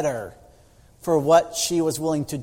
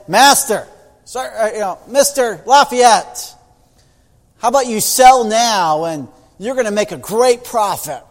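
louder, pleading servant voice; eager servant; 3 semitones higher, 5 dB louder than usual. Acted. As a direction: coax the boss to sell. Servant advising his master.

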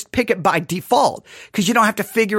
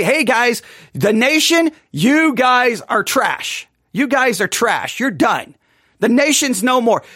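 mock dismissal; slower than usual. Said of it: "Just say".

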